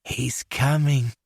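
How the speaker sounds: put-on slow, smug English accent. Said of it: "lapsed into his English accent".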